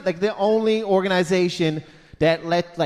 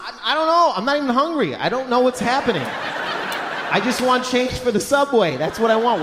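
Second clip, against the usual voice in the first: flustered laughing; 4 semitones higher than usual. Retold or imitated. Flustered customer replying.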